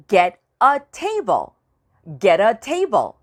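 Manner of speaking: slow, clear teacher model; slow model phrase. Shown as a demonstration. Teacher slowly models a phrase for students. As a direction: say it slowly for the class. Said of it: "teacher models phrase".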